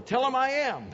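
lightly voiced divine declaration; voice of God. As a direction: ring it out as God's name. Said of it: "God's response is simply".

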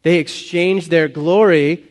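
loud, slow, pointed reading; drawn-out mock amazement; sarcastic. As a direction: hit it slowly with sarcastic emphasis. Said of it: "can you hear the sarcasm there".

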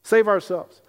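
fast, panicky whispering-to-friends worry; mock-fearful rush to flee; scared disciples. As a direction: hurry the words like frightened men planning escape. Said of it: "they're afraid".

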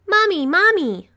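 put-on very high, loud little-girl yell; crying out. A narrator's reading. Muddy little girl running to mother, crying out. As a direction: wail for mother at full child pitch. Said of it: "the girl cried".

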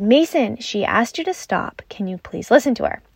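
mild, composed reprimand; measured parental request, easing down; calm retelling. Retold or imitated. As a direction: retell the telling-off calmly, no yelling. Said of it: "I didn't say that as calmly as I just did".

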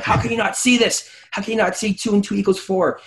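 high, exasperated disbelief; fired up. Retold or imitated. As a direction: replay the heated debate, pitch soaring. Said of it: "I get fired up".

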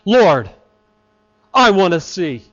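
plain, direct, earnest request; simple plea. Acted. Blind man going straight to the point with Jesus, simple plea. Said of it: "goes right to the point and says simply".

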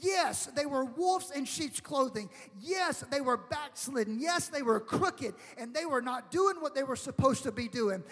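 forceful, drawn-out pulpit delivery; fervent preaching. Real, not acted. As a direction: preach it with urgent conviction, stretching key words.

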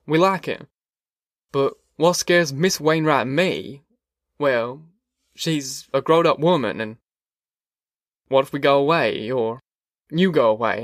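a hint of a worried country father; lightly voiced worried neighbour. Wainwright raising fears for his daughter with Ma, lightly voiced worry.

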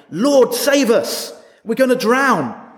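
high, slow, pleading cry for rescue; panicked cry. Acted. Frightened disciples begging Jesus in the storm, panicked. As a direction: plead like sinking men. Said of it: "They say".

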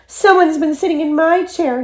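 high-pitched little cub voice; Baby Bear crying out. A narrator's reading. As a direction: wail it as a tiny bear. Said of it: "he cried".

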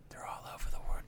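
hushed whisper aside. Real, not acted. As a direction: drop to a whisper, sharing a secret. Aside to listeners.

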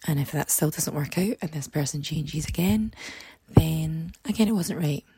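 hoarse, croaky speaking voice. Real, not acted. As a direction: talk through a croaky, worn throat. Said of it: "apologies for the really croaky voice".

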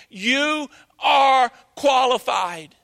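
slow, emphatic shouted declaration; preaching shout. Real, not acted. Preacher shouting to congregation, slow emphatic shout. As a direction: drive it home slowly, full voice.

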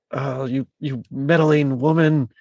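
slow, lightly voiced Irish scold; hint of a grumbling leprechaun. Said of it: "doesn't he call her, like, a meddling woman".

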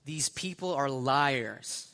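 slow, drawn-out mock accusation; mild mock yell, each word stretched; retold yell. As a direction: imitate yelling to a crowd without real volume. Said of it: "yells at everybody else".

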